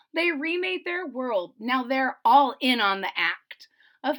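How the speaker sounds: put-on lively read-aloud rhythm for kids; storybook narration. A narrator's reading. Reader telling young listeners about Ada, lively storybook reading. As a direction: tell the rhyme to the children. Reads picture book aloud.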